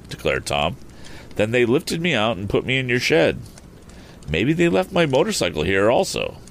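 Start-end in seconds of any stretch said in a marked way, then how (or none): 1.4-6.4 higher-pitched earnest youth; young Tom. Acted. Tom working out how he reached the shed, higher youthful voice. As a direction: reason it out as a young hero.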